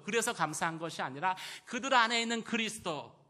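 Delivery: high, loud, driving pulpit delivery; forceful preaching. Real, not acted. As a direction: build the point emphatically for the congregation. (목소리 높여 열정적으로 설교)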